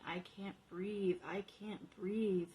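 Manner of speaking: slow breathless pleading whisper; gasping whisper. Acted. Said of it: "the gasp for breath and pleading".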